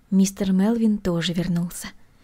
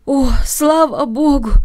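relieved cry; 5 semitones higher, 6 dB louder, slower than usual. Acted. Relief after waking from dream.

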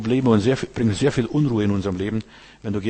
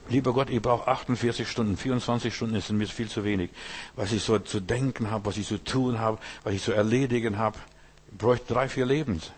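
softer, private plea to God; quiet prayer; 6 dB quieter than usual. Retold or imitated. Preacher retells his own prayer, softly. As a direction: murmur it like a tired prayer. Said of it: "ich sag".

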